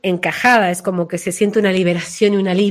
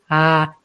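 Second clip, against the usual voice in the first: lifted ah; 5 semitones lower than usual. Shown as a demonstration. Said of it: "es como que".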